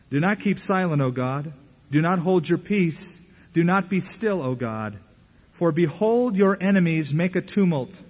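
solemn, slowed psalm reading; scripture reading. Acted. Pastor reading the psalm to the congregation, solemn. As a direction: read the psalm with weight.

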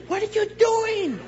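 high, drawn-out incredulous yell; hammed-up high holler; mock yelling. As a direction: call it out like an outraged onlooker. Dopers yelling at him on freeway.

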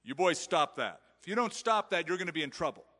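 scolding threat. Retold or imitated. Parent threatening the boys, a mock angry scold. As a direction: play a fed-up parent warning the boys. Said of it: "Here's the threat".

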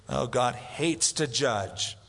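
usual speaking voice

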